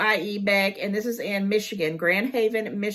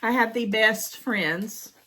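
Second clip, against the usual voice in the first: touched; 3 semitones higher, slower than usual. Real, not acted. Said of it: "not about me getting emotional".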